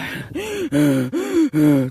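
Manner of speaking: loud, high panting gasps; winded gasping. Retold or imitated. Re-enacting trying to follow the dog, winded gasping. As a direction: act out puffing after the dog. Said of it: "trying to follow my dog".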